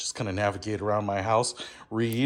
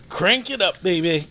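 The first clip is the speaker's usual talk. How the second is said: high, loud and playful; cheeky loud rally cry, much higher; playful hype; 6 semitones higher, 4 dB louder than usual. Acted. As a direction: pump it up like a hype man. Hyping up the crank radio.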